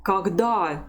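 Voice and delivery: Когда read with weak o as "a", stressed final "da"; teacher's clear "kag-DA" for Когда; careful Russian model word, stress landing on the end of Когда; model pronunciation. Shown as a demonstration. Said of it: "How do you read this word".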